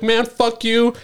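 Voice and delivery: high, sharp mock anger; retold angry curse. Cursing out the coworker who forgot, high and angry. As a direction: spit it at the guy who burned you.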